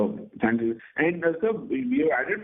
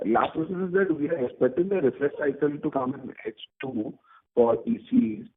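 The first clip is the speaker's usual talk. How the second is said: glitchy, cutting-out phone line; robotic dropouts on a bad call; breaking audio. Real, not acted. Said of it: "your audio is breaking".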